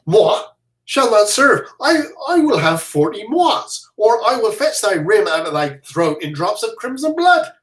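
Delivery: blustering threat. Acted. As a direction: puff up and threaten.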